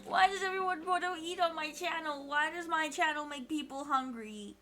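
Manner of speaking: loud, plaintive complaint; mock despair. Streamer baffled that chat is hungry, mock despair. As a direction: wail it in playful exasperation. Lamenting chat's hunger.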